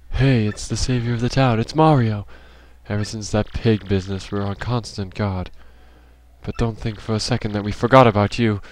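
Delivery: game character. Acted. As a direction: play a town local with quiet restraint.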